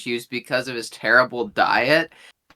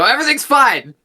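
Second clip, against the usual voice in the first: high-pitched shout, much higher and louder; calling out; 13 semitones higher, 5 dB louder than usual. Acted. Calling down from the banner while rifling through the bag, high-pitched yell. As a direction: yell it across as a reassurance. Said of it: "And we call out, I just go".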